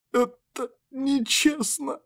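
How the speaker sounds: squeaky high, slow whine; squeak. A narrator's reading. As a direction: squeeze out a pained squeak. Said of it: "выдавил из себя писк". (писклявый сдавленный голос)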